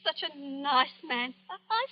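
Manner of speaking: a crying catch in the voice; tearful disbelief. Acted. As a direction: speak through tears, upset. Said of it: "don't take on so".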